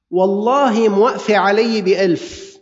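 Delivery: slow, insistent swearing on the price; mock seller's oath. Seller swearing to a haggling buyer, drawn-out oath. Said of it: "ليش عم تقول والله موقفة بألف".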